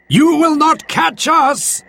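high, taunting shout; calling out. Acted. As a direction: call out defiantly to the pursuer. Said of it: "they called out".

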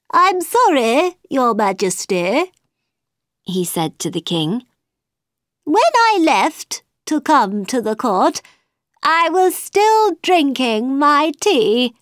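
high, nervous hatter; high-pitched flustered hatter; Mad Hatter voice. A narrator's reading. Mad Hatter answers the king.

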